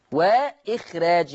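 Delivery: وإخراج slow, with a light, thin r; thinned raa. Shown as a demonstration. Teacher demonstrating tarqiq, وإخراج with a thin raa. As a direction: keep the r of وإخراج light, not heavy. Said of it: "الراء بتاعتها مرققة".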